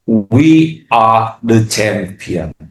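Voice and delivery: slow drawn-out victory line; mock triumphant. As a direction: gloat like a champion. (ucapan kemenangan yang dilambatkan)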